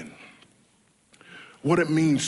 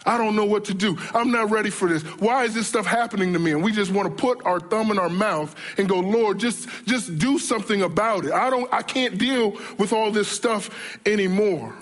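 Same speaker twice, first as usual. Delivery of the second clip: mild whiny tantrum; 4 semitones higher than usual. Retold or imitated. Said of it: "throw a temper tantrum".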